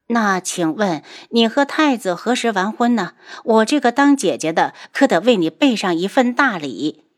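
mocking, cold taunt; sneering. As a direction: needle her with fake politeness. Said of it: "楚清瑶冷笑". (冷笑着讥讽)

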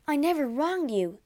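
high, urgent protest of innocence; pleading. A narrator's reading. Wife pleads with her jealous husband, pleading. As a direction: plead with rising pitch. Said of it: "she pleaded".

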